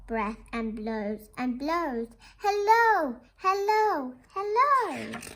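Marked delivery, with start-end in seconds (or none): 2.4-5.2 high, louder repeated hellos; sing-song calling. Pretend. Children greet the lighthouse with sing-song calling. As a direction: call out again and again.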